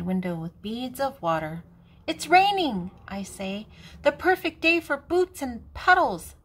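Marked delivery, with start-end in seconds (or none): 2.1-2.9 put-on child voice. Child voice in read story. 4.0-6.3 wrong voice. Acted. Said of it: "I did that in the wrong voice".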